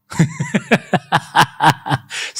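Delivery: a bright chuckle; real light laughter; amused laugh. Real, not acted. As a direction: laugh at his own story. Laughter heard.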